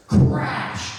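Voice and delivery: long, slow retold crash; drawn-out crash. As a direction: stretch the word out slowly like the noise. Imitating the sound of a crash.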